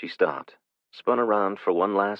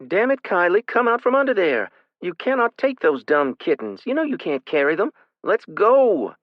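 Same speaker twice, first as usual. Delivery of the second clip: much higher, louder scolding yell; angry yelling; 13 semitones higher, 6 dB louder than usual. A narrator's reading. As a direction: yell at the stubborn little sister. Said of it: "She was yelling, loudly".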